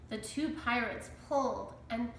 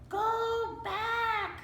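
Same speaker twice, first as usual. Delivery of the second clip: much higher sing-song parrot squawk; "Go back" screeched like a parrot; 13 semitones higher than usual. A narrator's reading. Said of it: "squawked Polly".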